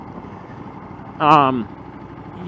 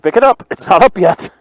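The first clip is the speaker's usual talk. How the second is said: shouting; 7 semitones higher, 9 dB louder than usual. Real, not acted. Lifting fallen bike together.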